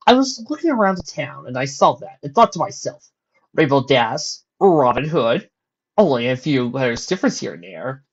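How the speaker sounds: cheery, playful trickster; mischievous showman voice; jovial Discord. Acted. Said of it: "A quite jovial voice".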